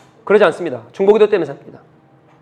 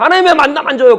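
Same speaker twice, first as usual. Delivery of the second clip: acted complaint; 5 semitones higher than usual. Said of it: "하나님 앞에 그렇게 말하는 거예요".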